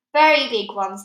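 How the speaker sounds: loud, proud boast; proudly. A narrator's reading. Air Force chief boasting of his helicopters, loud. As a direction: puff up with pride. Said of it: "the head of the Air Force said proudly".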